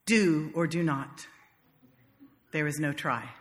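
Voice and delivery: Yoda. Retold or imitated.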